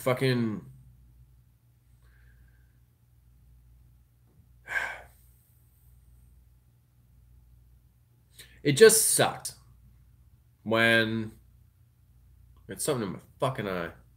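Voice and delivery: choked up, voice catching, tearful. Talking about rethinking priorities, getting choked up. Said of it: "I promise I'm not getting choked up".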